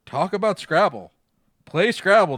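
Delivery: slow, loud nagging whine; whining. Acted. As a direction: whine it, drawn out and pleading. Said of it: "the voice whines".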